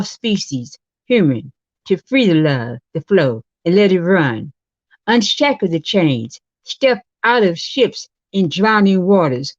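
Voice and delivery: measured poem reading with pauses between phrases; poem recital. Acted. Poet reciting to the show's audience, poem recital. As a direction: recite it line by line, letting each phrase fall.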